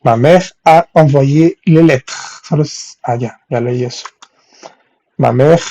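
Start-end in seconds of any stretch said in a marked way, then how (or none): 0.0-2.2 slow, measured French model sentence; slow example sentence. Shown as a demonstration. Teacher reading a French example to her students, slowly. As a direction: read it out slowly for learners.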